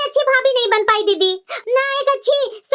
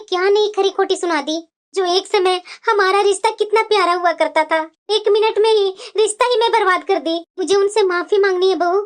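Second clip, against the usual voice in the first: tearful apology; 5 semitones lower than usual. Acted. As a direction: apologise with a lump in the throat. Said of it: "आप इस तरह से रो रहे हैं".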